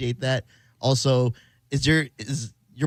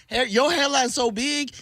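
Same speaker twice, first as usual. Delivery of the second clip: high-pitched imitated Asian accent; thick Asian accent; 10 semitones higher than usual. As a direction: repeat the kid's put-on Asian accent. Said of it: "she said in a thick Asian accent".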